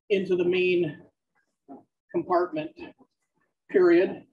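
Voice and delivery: dictating text with spoken punctuation; measured dictation to a recorder, words spaced out. Acted. Dictates novel aloud on treadmill.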